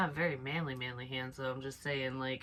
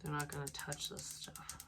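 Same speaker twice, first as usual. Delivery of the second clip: much softer repeat; 11 dB quieter than usual. Shown as a demonstration. Repeats the line, second softer.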